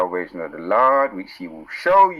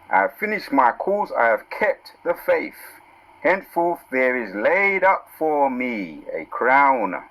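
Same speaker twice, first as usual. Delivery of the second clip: raised, slow preacher's reading of the verse; scripture reading; 3 semitones higher, slower than usual. Acted. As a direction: proclaim the verse to the congregation. Reads scripture with emphasis.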